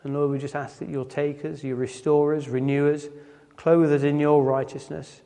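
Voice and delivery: hushed, humble prayer voice; closing prayer. Acted. Preacher closing the service in prayer to God, hushed.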